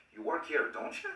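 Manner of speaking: "don't you?" shooting up high on "you"; curious tag swooping upward; rising intonation. Shown as a demonstration. Teacher showing curiosity with high rising intonation. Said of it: "uso la entonación alta".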